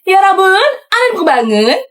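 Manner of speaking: high spirit chant; a lightly voiced spirit chant; possessed spirit voice. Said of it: "pakai suara kodam gue".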